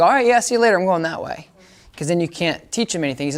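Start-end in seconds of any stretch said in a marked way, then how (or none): 0.0-1.5 voicing the dog. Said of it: "I don't want him to go".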